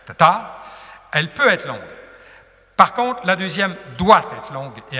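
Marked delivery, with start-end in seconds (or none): 0.1-0.6 "ta ta" louder and higher, first short, second long; quick first "ta", lean on the second; short-long iamb. Shown as a demonstration. Teacher explains first syllable should be brief, iambic beat. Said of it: "qui est supposée être brève".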